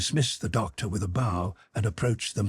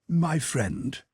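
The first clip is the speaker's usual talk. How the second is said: gentle tones; 7 semitones higher than usual. Acted. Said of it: "in gentle tones".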